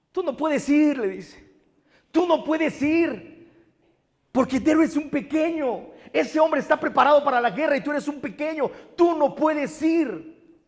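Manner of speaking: high, slow worried refusal; King Saul pleading. Retold or imitated. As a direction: plead with the boy not to go.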